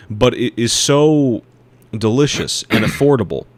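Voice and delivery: mock connoisseur. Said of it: "as a serious food connoisseur".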